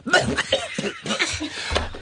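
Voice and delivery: breathy, voiceless coughing; re-enacted coughing fit. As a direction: act out a helpless cough. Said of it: "I coughed".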